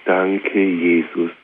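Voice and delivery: slowed, hushed thanks to Jesus; a whispered-feeling word of thanks; slow soft prayer. Shown as a demonstration. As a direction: breathe it out as a quiet prayer. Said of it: "ein Wort".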